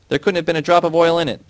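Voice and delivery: high, loud furious yell; angry shout. A narrator's reading. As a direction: shout in disbelief. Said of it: "the foreman shouted".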